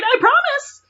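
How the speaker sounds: squeaky, very high promise; high-pitched promise. Pretend. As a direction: squeal it like an excited kid. Author's overeager promise.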